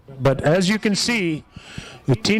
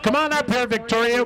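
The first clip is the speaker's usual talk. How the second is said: calling out; 5 semitones higher than usual. Real, not acted. Calling winner up to stand.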